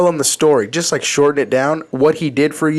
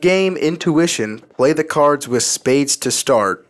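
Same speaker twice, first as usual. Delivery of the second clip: deadpan monotone voice, no melody. Shown as a demonstration. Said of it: "in the most monotone voice".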